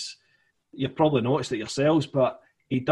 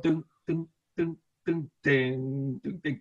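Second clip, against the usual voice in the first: imitating a piano note; 2 semitones higher, 4 dB quieter, slower than usual. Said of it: "that one piano note".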